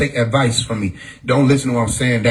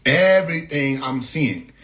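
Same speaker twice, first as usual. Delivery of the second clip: annoyed. Retold or imitated. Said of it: "annoyed like".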